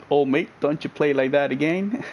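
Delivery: amateur Australian accent, rising at the end; half-convincing Australian mate-talk; attempted Aussie accent. Shown as a demonstration. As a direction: have a shaky go at an Aussie accent. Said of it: "I can't even do Aussie".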